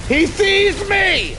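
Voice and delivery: high, slow alarmed cry. Real, not acted. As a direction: panic as you're spotted. Game sneak, spotted by enemy.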